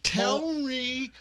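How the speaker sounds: slow, over-enunciated with a pen between the teeth; pen in mouth. Shown as a demonstration. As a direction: talk around a pencil in the mouth. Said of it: "Here, I'll show you how we did it".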